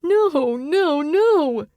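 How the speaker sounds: high, loud repeated no; frantic yelled refusals; panicked shouts. A narrator's reading. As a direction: push them away with your voice. Clem wards off in panic.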